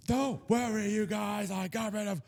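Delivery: high, soft put-on character voice; Saint Patrick. Podcaster as saint announcing the snakes are gone, high soft voice. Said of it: "Saint Patrick came in and was like".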